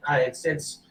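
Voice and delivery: lightly voiced reluctant dealer; haggling orc merchant. Orc dealer talking down the rug's value, mildly reluctant. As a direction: hedge and grumble through the offer.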